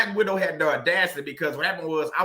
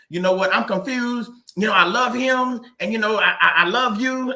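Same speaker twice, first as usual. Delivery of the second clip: higher, louder mock of a torn wife; mock confused victim; 4 semitones higher, 4 dB louder than usual. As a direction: whine it like she's playing the victim. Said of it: "she played the victim saying".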